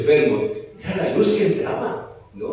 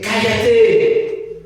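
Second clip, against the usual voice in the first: stern hush; 7 semitones higher, 4 dB louder than usual. Acted. Apóstoles callan al ciego.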